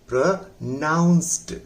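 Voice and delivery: "प्रोनाउंस्ड" slow, weight on the second part; stress on NAA. Shown as a demonstration. Teacher models it for students, "प्रोनाउंस्ड" stressed on ना. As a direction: say "प्रोनाउंस्ड" slowly, leaning on ना. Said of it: "ना पर जोर लगाइए".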